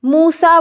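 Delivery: मूसा slowly, with long held vowels; मूसा pulled long, as a reading demo; drawn-out vowels. Shown as a demonstration. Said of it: "उस चीज़ को मैंने थोड़ा खींच के पढ़ा".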